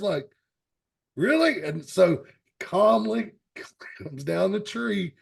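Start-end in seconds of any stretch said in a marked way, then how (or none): 1.2-1.6 chimp's imagined reaction. Retold or imitated. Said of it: "chimp is just like this at first".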